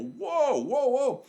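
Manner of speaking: high-pitched startled whoas; retold alarm. Retold reaction to charging driver.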